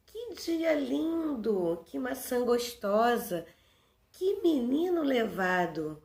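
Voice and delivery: drawn-out exclamations starting high and falling; demonstrated exclamation. Shown as a demonstration. Teacher showing pupils the exclamation mark, demonstrated exclamation. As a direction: exclaim in wonder, as a classroom example. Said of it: "quando nos espantamos de alguma coisa".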